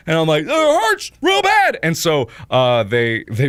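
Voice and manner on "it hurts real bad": high, loud, drawn-out mock wail; agonized yell. Patient squeezed by blood pressure cuff, slow high wail. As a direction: stretch the cry of pain slowly.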